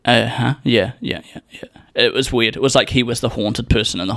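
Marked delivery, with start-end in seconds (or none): 0.0-1.6 imitating a jumpy friend brushing it off; distracted yeahs trailing away; lightly acted unease; on edge. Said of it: "so on edge all of a sudden".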